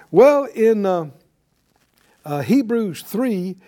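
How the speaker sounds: ordinary talk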